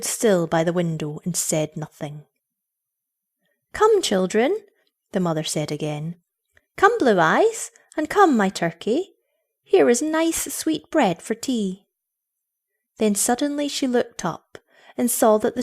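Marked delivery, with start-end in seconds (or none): 3.7-4.6 lightly coaxing, pitched higher; high, lilting motherly coaxing. A narrator's reading. Mother coaxes silent children again. 6.8-11.9 high, lilting motherly coaxing; sing-song invitation, pitched up. A narrator's reading. Mother coaxes silent children again.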